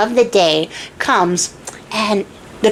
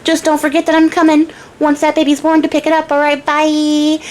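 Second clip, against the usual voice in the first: higher-pitched, breezy businesslike send-off; imitating a breezy dealmaker; breezy sign-off; 5 semitones higher than usual. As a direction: toss off a cheery goodbye as the dealmaker. Little man breezily closes the deal.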